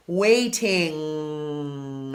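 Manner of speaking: "Waiting" with a loose dropped jaw and a ringing NG; unhinged jaw. Shown as a demonstration. Teacher showing a dropped jaw on "Waiting". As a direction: drop the jaw wide and sing out "Waiting". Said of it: "unhinging my jaw".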